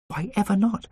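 high-voiced indignant demand. A narrator's reading. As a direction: demand a reason. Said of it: "she demanded".

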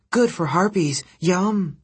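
high-pitched harpy voice, approving; harpy pronouncement. A narrator's reading. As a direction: declare approval as an odd little harpy. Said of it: "she pronounced".

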